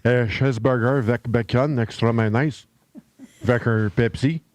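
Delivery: light Quebec French accent on the order. Shown as a demonstration. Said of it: "could you do a Quebec accent".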